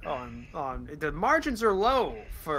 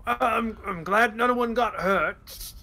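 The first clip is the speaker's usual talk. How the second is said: ship captain; 2 semitones higher, 4 dB louder, slower than usual. Acted.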